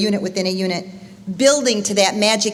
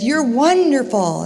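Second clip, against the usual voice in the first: slow, higher, drawn-out call; father calling out praise; 4 semitones higher, slower than usual. Retold or imitated. Father calling praise to the unseen voice, slow raised call. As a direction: sing out the praise slowly. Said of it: "And he says".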